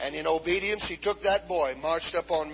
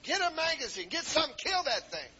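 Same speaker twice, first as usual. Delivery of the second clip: frantic orders; 9 semitones higher than usual. Retold or imitated. Retold frantic orders to men.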